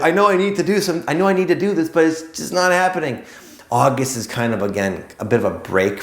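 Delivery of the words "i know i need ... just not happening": mock frantic inner voice. Mimicking July's stormy inner voice.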